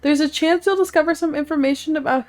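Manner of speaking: lightly done announcer read. Acted. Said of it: "How are you guys liking my announcer voice".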